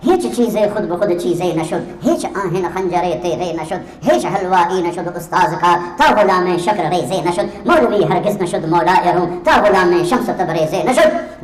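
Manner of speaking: slow, measured recital of Persian verse; poem recitation. Acted. Preacher reciting Rumi's verse to the congregation, slow and measured. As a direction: chant the verse slowly and reverently.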